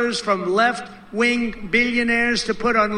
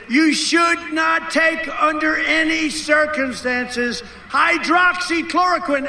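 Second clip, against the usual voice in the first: mock official warning; 5 semitones higher than usual. Mock hypothetical statement he should have made.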